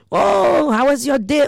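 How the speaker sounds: high, sing-song mock greeting; high bright hello to a friend; cheery greeting. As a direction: chirp it like a breezy hello.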